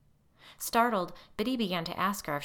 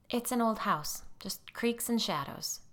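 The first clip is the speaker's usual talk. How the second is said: whispered, nervous dismissal; 6 semitones higher than usual. A narrator's reading. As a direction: hush it away nervously. Molly nervously downplays.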